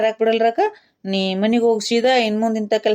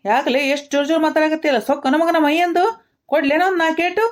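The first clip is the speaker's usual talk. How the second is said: rising, higher-pitched threat; angry scolding; 4 semitones higher than usual. Acted. Elder threatens drunk young man, angry scolding. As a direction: scold him and threaten a beating.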